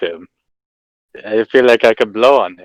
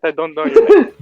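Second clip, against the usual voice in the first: sharp retort; 9 semitones higher than usual. Acted. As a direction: snap back at him. Rival retorts in argument.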